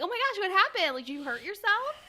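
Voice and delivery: imitating someone startled by a limp; mock surprise. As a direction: gasp it out as fake shock. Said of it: "you're like".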